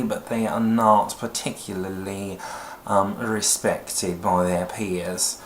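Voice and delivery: a hint of a snooty British voice, slow; lightly played self-righteous British toff; pompous British. Shown as a demonstration. Coach demoing a pompous nasal British accent. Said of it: "bring it into your nasal voice".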